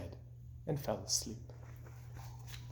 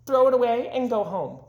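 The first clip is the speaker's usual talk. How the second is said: jeering robins; 9 semitones higher, 3 dB louder than usual. Acted. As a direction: sneer it out high.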